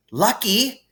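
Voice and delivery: high, sharp disbelieving shriek; mock shriek. A narrator's reading. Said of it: "shrieked Hermione".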